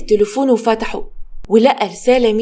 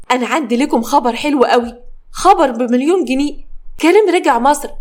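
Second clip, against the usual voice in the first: excited news; 2 semitones higher than usual. Acted. Cousin gleefully tells the family Karim is back, excited. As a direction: build up to the big news.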